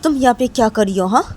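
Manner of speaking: loud, high, furious demand; angry shout. Acted. Nisha confronting Manisha at the party, angry high shout. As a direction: yell at her friend, outraged. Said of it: "तो तभी बोलती है कि".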